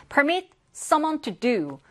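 permit said slowly, the stress high on the first syllable; slow model phrase. Shown as a demonstration. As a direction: spell it out slowly for the class. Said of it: "reads an example phrase slowly". (천천히 또박또박 읽는 예문)

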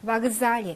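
바그잘리 with the first vowel reduced to A; unstressed O as A. Shown as a demonstration. Teacher showing vowel reduction, 바그잘리 opening on an unstressed A. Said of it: "강세가 없어서 얘만 아 발음".

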